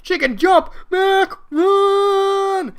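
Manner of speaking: loud, high alarmed yell; panicked shout. Acted. Falcon warns Mac to run, shouting in panic. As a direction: warn him at full volume.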